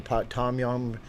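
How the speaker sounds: a light, unintended Asian accent on "tom yum"; accidental Asian accent. Real, not acted. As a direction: slip briefly into an Asian accent. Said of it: "Why did I start talking with an accent".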